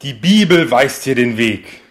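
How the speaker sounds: slow, loud solemn command; slow exorcist command. Pretend. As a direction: intone it like an exorcist.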